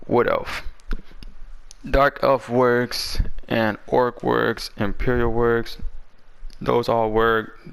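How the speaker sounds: dry, parched voice from a cold; hoarse sick voice. Real, not acted. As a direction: talk through a sore, parched throat. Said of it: "That's why my voice is kinda, like, parched".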